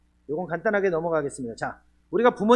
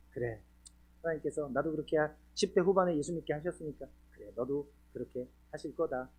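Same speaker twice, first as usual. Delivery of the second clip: inner self-talk; 5 semitones lower, 9 dB quieter than usual. Retold or imitated. Father calming himself despite anger.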